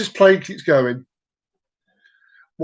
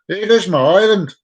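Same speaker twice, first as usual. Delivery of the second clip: badly faked Irish accent, louder; attempted Irish accent; 3 semitones higher, 5 dB louder than usual. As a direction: have a clumsy go at an Irish accent. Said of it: "I can't do an Irish accent".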